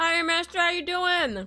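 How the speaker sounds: very high-pitched talk through chewing. Greeting someone called master while eating, talking while chewing. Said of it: "I'm like trying to munch and talk".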